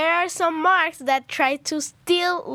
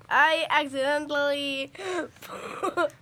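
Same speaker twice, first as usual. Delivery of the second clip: laughing. Real, not acted. Giggling through her explanation.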